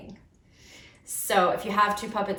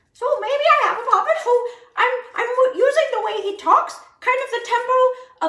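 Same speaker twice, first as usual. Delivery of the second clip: much higher, louder monkey chatter voice; 14 semitones higher, 7 dB louder than usual. Pretend. Puppet teacher showing a monkey character, high monkey voice. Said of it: "how a monkey is".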